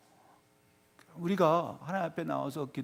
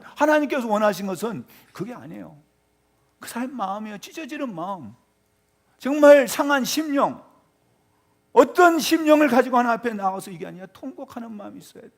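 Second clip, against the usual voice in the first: ordinary talk, nothing marked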